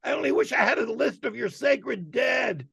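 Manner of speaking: high shouted rant, pitch way up; Sam Kinison scream. Retold or imitated. Comic imitating Sam Kinison's stage rant, shouted high. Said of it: "he goes".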